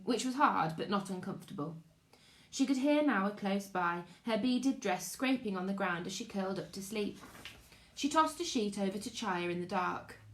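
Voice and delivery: calm, even read-aloud storytelling; story narration for children. A narrator's reading. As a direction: read it like a bedtime chapter.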